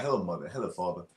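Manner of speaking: soft, prim English-movie greeting; proper English. Retold or imitated. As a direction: greet like a polite English child. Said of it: "walk around the house and be like".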